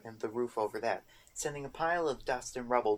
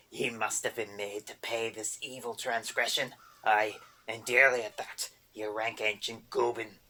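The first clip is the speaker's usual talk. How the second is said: angry boggart; 2 semitones lower than usual. A narrator's reading. Boggart rants at Erder about the cream, angry goblin brogue. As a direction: scold her like a cranky goblin.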